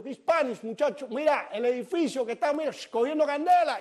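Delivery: high, urgent call upward; exasperated calling out. Retold or imitated. Passerby insisting to the man that the building burns, exasperated calling. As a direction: pitch it up to reach the roof. Yelling warning up to the rooftop.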